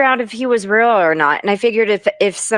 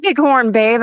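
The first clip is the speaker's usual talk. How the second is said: mock sympathetic voice; 7 semitones higher than usual. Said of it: "She goes".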